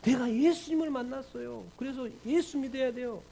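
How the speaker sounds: lightly voiced young believer; pleading convert. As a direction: beg them to believe. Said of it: "핍박해요".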